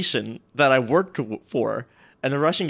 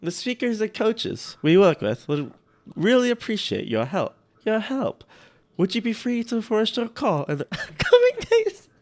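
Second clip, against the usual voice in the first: put-on higher-pitched, botched German accent, near breaking into laughter; terrible German accent; 8 semitones higher than usual. Host reading an email to speakers' coaches, terrible muddled accent. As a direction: badly fake a German accent that drifts into Russian. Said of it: "doing the worst accent possible".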